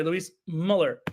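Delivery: Muller said MULL-er after a break; retry "Muller" with a short first vowel; attempted umlaut. Shown as a demonstration. Host correcting himself on the name, Muller as MULL-er. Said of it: "I gotta pronounce the umlaut".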